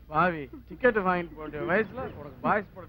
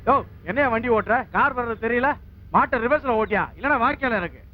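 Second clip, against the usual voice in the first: fast, slightly raised voice; irritated scolding. Acted. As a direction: tell off a careless driver, quick and forceful. Man scolds a careless driver.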